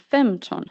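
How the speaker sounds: "femton" said in Swedish, as an example word; careful Swedish "femton", melody on the word; Swedish pronunciation. Shown as a demonstration. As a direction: demonstrate Swedish "femton" with its pitch accent. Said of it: "demonstrate the pronunciation of these words".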